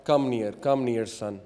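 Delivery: soft, low fatherly beckoning; gentle invitation. Retold or imitated. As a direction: softly coax a youngster to come closer. Prophet gently inviting the youth closer.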